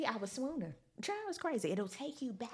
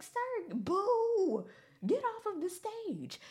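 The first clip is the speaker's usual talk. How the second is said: high, loud booing; heckling; 12 semitones higher, 5 dB louder, much slower than usual. Retold or imitated. Audience member booing Jeremiah offstage, loud high heckle. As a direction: holler him off with a big high boo.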